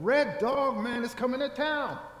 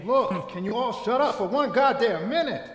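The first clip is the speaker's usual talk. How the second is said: louder, fed-up demand; annoyed outburst; 6 dB louder than usual. Acted. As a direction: shout them down to be heard. Cutting off the heckling crowd.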